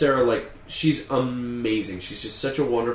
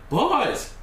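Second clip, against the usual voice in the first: high, nasal mock call; a hammed-up nasal shout; nasal impression; 10 semitones higher than usual. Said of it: "It is a little bit".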